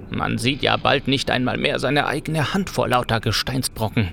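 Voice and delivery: a touch of fear in the voice; shaky breathless pleading. Acted. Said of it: "mit bebender Stimme".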